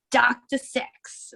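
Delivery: slow, drawn-out announcing of each word; billboard read-out. Retold or imitated. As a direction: stretch "Doctor Sex" out slowly like reading a huge sign. Reading out a giant billboard.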